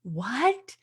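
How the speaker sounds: imitated shout of joyful shock; shocked delight. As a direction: replay the moment of disbelief at full volume. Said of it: "I'm like".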